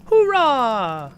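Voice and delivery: high, loud elf cheer. Retold or imitated. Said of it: "That's about it for the elf voice".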